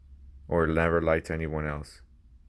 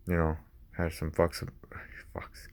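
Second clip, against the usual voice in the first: whispered swear, no voice; 6 dB quieter than usual. Real, not acted. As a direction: drop to a breathy whisper on the slip. Whispered self-correction of swear.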